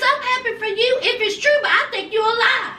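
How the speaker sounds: laughing. Retold or imitated. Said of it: "He says".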